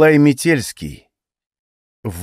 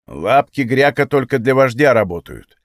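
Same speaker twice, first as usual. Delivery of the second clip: grumbling. Acted. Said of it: "проворчал гоблин".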